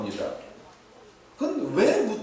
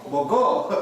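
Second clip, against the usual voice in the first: short, punchy Gyeongsang dialect question; 경상도 사투리; 5 dB louder, slower than usual. Shown as a demonstration. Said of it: "경상도 말로 뭐라고 그러죠". (짧게 툭 던지는 경상도 사투리)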